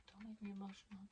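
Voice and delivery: quiet, near tears, voice fading away; choking up. Real, not acted. Mother reading her daughter's card, quietly choked up. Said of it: "I really am gonna cry".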